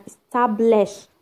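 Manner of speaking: "establish" with TAB stressed; stress on second-last syllable. Shown as a demonstration. Teacher giving a new example, penultimate stress on "establish". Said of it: "Second from the end".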